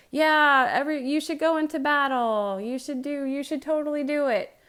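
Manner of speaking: hammed-up eager prophets egging him on; mock eager cheering. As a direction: pump the king up like flatterers. Prophets hyping the king up.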